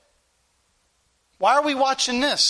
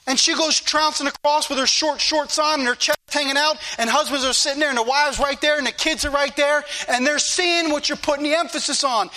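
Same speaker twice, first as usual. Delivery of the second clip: fiery preaching, pitched higher; rising fervor, faster at the end; stirred-up preaching; 5 semitones higher than usual. Real, not acted. Preacher warning the congregation about television, fiery and stirred up. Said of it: "Sorry for getting stirred up and for hitting the pulpit".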